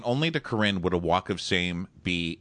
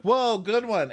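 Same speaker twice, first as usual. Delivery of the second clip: high, loud impressed reaction; high impressed whoa; 13 semitones higher, 3 dB louder, slower than usual. Retold or imitated.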